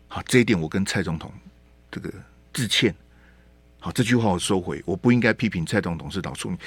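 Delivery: low, soft mock apology voice; mock contrite apology. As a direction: mumble it like a sheepish apology. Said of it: "你就说啊".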